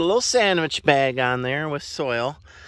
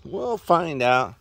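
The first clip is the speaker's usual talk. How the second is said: "We'll" stretched slow, with a falling end; drawn out, half teasing; slow, knowing repeat; slower than usual. Shown as a demonstration.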